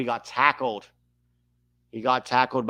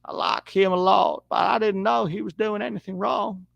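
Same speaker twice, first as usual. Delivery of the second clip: lightly voiced Clinton, a bit higher; a hint of a folksy Southern politician; Bill Clinton impression; 4 semitones higher than usual. Streamer doing a light Bill Clinton voice for chat. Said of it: "sounded like Bill Clinton".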